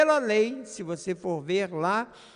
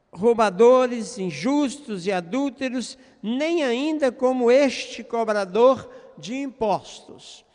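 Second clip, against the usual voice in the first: louder, slow list with scornful weight; haughty praying voice, mildly acted; mock arrogance; 3 semitones higher, 6 dB louder than usual. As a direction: imitate a self-righteous man listing sinners. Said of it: "a arrogância e a prepotência deste homem".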